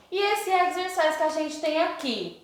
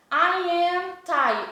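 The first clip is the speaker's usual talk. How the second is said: slow demo; 4 semitones higher, much slower than usual. Shown as a demonstration. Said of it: "se eu digo assim".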